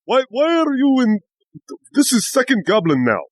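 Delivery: high, insistent acted call; exasperated high goblin hail; goblin yelling. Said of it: "yelling in Goblin".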